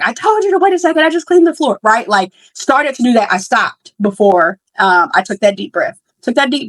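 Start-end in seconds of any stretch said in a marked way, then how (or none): 0.0-1.8 a retold outburst at a toddler, pitched way up; raised voice. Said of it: "I had raised my voice before I stopped".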